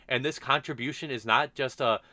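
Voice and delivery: ordinary talk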